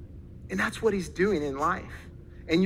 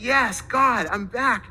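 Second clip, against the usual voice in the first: raised, mildly acted cry of joy to God; retold jubilant shout, higher and louder at the start; exultant cry; 4 semitones higher, 4 dB louder, much slower than usual. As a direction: imitate a convert rejoicing out loud. Kid rejoicing through tears in prayer.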